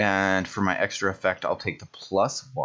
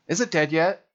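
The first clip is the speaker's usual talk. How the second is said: gleeful eagerness; 9 semitones higher, 4 dB louder than usual. Real, not acted. Keeps rolling damage.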